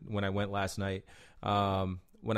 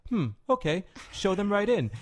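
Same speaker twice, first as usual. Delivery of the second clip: retold boss; 11 semitones higher than usual. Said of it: "And he's like".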